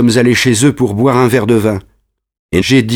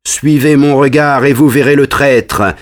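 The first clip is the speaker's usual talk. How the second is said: higher, accusing call; lightly voiced boy leader crying out; mild shout; 5 semitones higher than usual. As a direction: point out the traitor with a half-raised voice. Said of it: "crie Lebraque".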